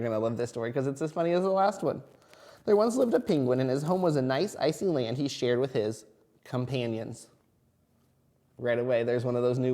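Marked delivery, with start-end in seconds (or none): 2.6-7.3 put-on reading to a toddler. Story narration to children.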